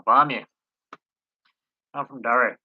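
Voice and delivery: lightly put-on Derry accent. Shown as a demonstration. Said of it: "I'm putting on a Derry accent".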